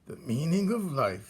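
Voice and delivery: put-on a sneering old rodent; old rat Botticelli. Old rat mocks young rat's idea of light, sneering.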